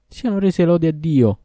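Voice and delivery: high, loud cry of thanks; freed youth praising God in elation; joyful exclamation. A narrator's reading. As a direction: burst out in joy at being freed. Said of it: "esclamò".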